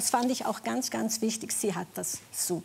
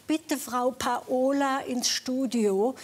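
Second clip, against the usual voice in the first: announcer call; 3 semitones higher, slower than usual. Retold or imitated. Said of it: "über den Lautsprecher".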